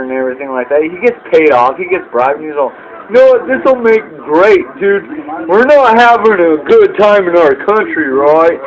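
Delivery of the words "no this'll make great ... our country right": mock governor. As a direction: sell it like a bribed governor who loves the idea. Bribed governor pitching Vegas.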